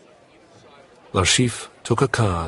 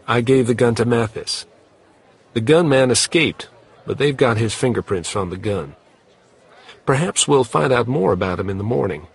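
Leiter voice, eager; 4 semitones higher, 4 dB louder, faster than usual. Acted. Leiter reports on the gunman.

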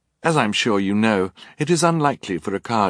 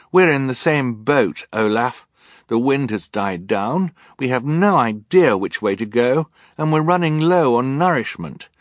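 higher, louder insistent plea; urgent pleading; 5 semitones higher, 5 dB louder than usual. Acted. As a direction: press the point urgently. Violet pleading forcefully.

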